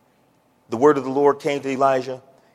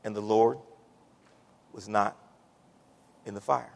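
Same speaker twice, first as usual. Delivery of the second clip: hushed refrain; 8 semitones lower, 6 dB quieter than usual. Acted. Quiet refrain after climax.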